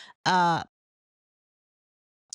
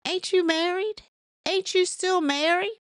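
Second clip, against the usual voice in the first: incredulous retort; 10 semitones higher than usual. Retold or imitated.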